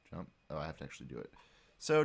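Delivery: normal talking voice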